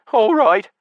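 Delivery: put-on high, thin old man's voice; a tired old drunk giving in; old drunkard. A narrator's reading. Patrick answering the centurion, high old drunk's voice. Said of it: "the drunkard whispered".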